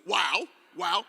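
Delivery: comic "wow" of pain; mock yelp. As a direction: pretend poke in the nose. Acts branch poking nose.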